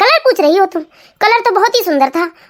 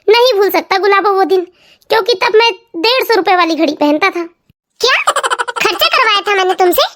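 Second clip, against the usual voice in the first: lightly lowered husband voice, mock complaining; grumbling husband. Husband teasing wife about the expensive watch. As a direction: tease her about the money spent.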